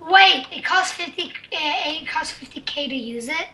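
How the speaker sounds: laughing in disbelief. Real, not acted. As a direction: laugh through the words. Laughing at price.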